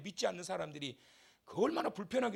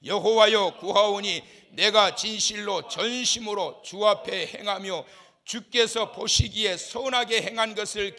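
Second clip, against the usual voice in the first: slow, louder recitation; loud verse reading; 10 dB louder, slower than usual. Shown as a demonstration. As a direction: proclaim the verse slowly and loudly. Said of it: "삼 절 시작".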